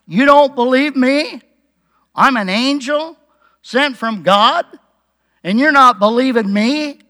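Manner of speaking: indignant disbelief; high, loud mock-offended questions; Gabriel. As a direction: demand to know how they dare doubt you. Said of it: "Gabriel's just a little bit upset".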